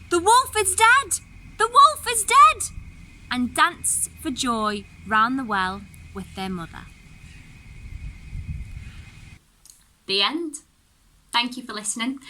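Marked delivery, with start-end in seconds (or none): 0.1-2.8 much higher, much louder joyful shouts; crying aloud for joy. Acted. Seven kids cheer over the drowned wolf, very high joyful shouting. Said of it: "cried aloud". 3.3-10.6 even, measured storyteller reading a fairy tale; story narration. A narrator's reading. Narrator reading a Grimm tale to listeners, storytelling voice.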